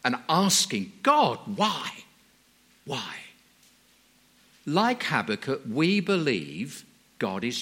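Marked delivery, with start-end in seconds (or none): 1.0-3.1 crying out. Retold or imitated. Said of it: "of crying out and asking".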